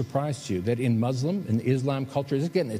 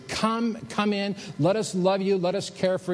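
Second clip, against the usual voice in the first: warm invitation; 6 semitones higher than usual. Acted. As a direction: draw them in gently. Pastor invites everyone into church.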